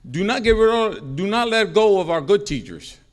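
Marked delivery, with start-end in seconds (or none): none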